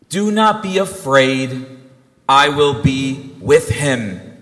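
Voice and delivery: slow, measured reassurance; unhurried, solemn comfort; reassuring Jesus. Retold or imitated. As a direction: voice a divine promise, word by word. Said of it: "he said to her".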